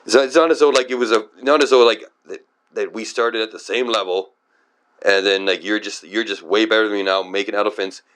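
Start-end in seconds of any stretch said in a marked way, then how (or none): 0.0-4.3 exasperated protest. Real, not acted. Still ranting, stumbling over objection.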